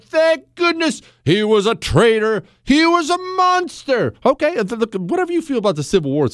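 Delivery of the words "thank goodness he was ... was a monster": mock outrage. Mocking outraged Tom, Dick and Harry.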